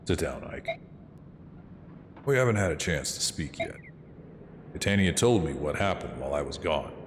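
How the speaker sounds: low, quiet commanding father; stern father voice. Acted. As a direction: speak as a grave old commander. Streamer voices the father, Greil.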